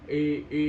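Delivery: "I" slack, turning into e; I jadi E. Shown as a demonstration. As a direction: loosen "I" until it sounds like e. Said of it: "kayak jadi E". ("I" terdengar seperti E)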